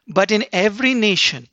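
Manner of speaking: fervent preacher's climax; preaching with fervor. Acted. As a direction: build the declaration.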